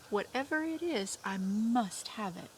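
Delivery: lightly voiced greedy mole; eager Mole.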